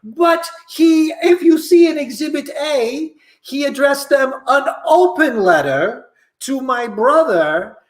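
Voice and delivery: pompous courtroom lawyer. Acted. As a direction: argue like a TV defence attorney.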